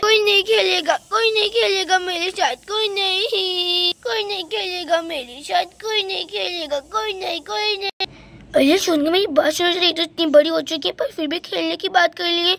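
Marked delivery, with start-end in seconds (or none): 0.0-7.9 crying. Acted. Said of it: "देखो बेचारी कितनी ज्यादा रो रही है".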